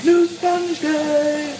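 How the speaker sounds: high, slow, mock-overjoyed "New Sponge Day!"; mock ecstatic cry. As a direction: stretch it out like a hammed-up gush. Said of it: "I got all choked up about New Sponge Day".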